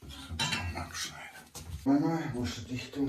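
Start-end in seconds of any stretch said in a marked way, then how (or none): 1.8-3.1 high call to someone far off; yelling across the room. Real, not acted. Calling to wife in another room.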